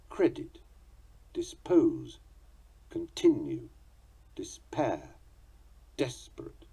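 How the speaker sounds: each word spoken alone with its accented syllable clear; stressed syllable demo. Shown as a demonstration. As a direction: list the words, landing each accent. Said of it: "there will always be at least one accent".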